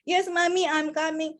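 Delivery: put-on child's reply. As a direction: answer like an obedient small kid. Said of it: "let's practice".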